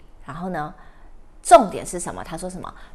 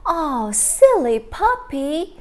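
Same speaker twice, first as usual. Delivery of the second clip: put-on little girl scolding; 5 semitones higher, 5 dB louder, slower than usual. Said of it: "结果little girl就说什么".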